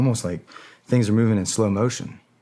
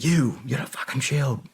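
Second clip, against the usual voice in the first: barked order; 5 semitones higher than usual. Retold or imitated. Barking orders at Malian soldiers.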